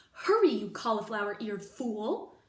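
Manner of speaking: loud insulting yell; shouting. Acted. The cook yells insults at Mig to hurry. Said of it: "shouted the cook".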